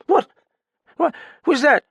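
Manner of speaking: put-on high, loud, slurred drunk; drunken Graffin. Drunk man pleading with narrator, high and slurred. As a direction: play the sodden old pianist rambling.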